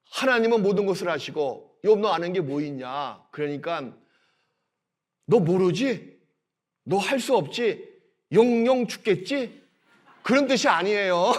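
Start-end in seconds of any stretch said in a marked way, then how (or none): 1.8-9.6 mock God sneering at Job; understated scornful taunt, slowing at the end; sarcastic taunt. Shown as a demonstration. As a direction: jeer at him, a mild mock sneer. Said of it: "빈정의 투가 아닙니다".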